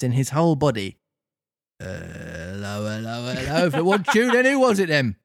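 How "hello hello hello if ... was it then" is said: police officer finding a puppet on the ground, bobby voice; Victorian bobby. Acted. Carabinier voice.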